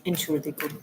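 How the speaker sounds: hammed-up German accent; ridiculous German accent. Greeting a German viewer in broken German, ridiculous German accent. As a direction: play up a German accent, drawing out the phrases. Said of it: "Sorry for being ridiculous with the accent".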